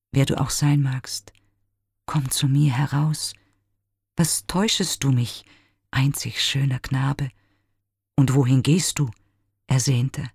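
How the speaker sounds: a lightly voiced young Narcissus, yearning, with whispered moments; lovelorn youth lamenting. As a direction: plead to your own reflection, sometimes barely breathed. Narcissus' long lament at the pool. (leicht gespielter verliebter Jüngling, klagend)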